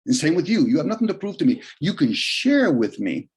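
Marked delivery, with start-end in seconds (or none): 1.8-3.3 "share" drawn out slowly; slow line with weight on "share"; stress on share. Real, not acted. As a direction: lean on "share", stretching it out. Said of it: "I emphasize on the word share".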